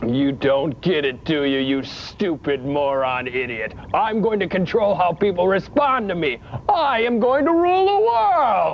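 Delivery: sneer, then crow about world domination; ranting villain. Acted. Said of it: "you're Gary".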